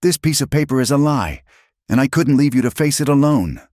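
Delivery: high, heated, urgent insistence; frustration boiling over. A narrator's reading. Man stung by her injustice, boiling over in frustration. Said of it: "his own frustration boiled over".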